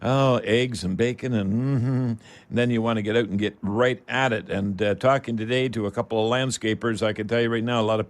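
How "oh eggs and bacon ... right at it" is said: energetic host welcome back; upbeat on-air welcome; radio show intro. Acted.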